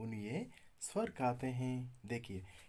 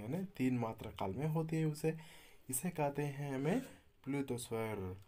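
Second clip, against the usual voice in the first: ordinary delivery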